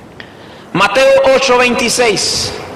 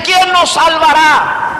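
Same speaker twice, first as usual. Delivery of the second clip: higher, slow, pleading question; mock desperate cry; 5 semitones higher, slower than usual. Pastor voicing frightened disciples in the storm, mild desperation. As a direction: cry out for rescue, lightly acted. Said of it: "empiezan a gritar y que empiezan a desesperarse".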